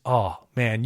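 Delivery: usual speaking voice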